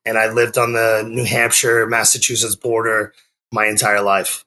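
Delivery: ordinary delivery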